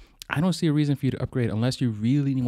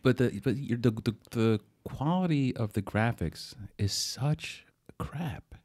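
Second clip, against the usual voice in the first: whispered; 5 dB quieter, slower than usual. Real, not acted. Complaining about the phone screen.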